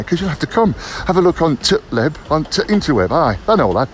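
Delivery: put-on a light, playful northern English accent. Vlogger pointing viewers to his website in a mock northern accent. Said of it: "I don't know why I've gone all northern".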